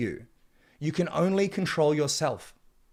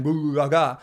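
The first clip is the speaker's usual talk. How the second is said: mock caveman grunt; 4 dB louder than usual. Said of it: "You don't speak like a caveman".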